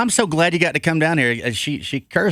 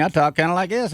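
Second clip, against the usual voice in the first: country twang; 4 semitones higher than usual. Shown as a demonstration. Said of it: "my country twang".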